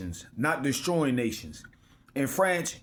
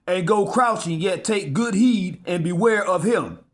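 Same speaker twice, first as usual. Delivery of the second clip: scripture reading; 3 semitones higher than usual. Acted. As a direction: proclaim the verse like holy writ. Preacher reads scripture aloud.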